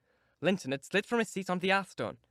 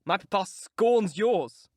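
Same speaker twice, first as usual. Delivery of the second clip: cried; 4 semitones higher, 6 dB louder, much slower than usual. Acted. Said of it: "cried Linton".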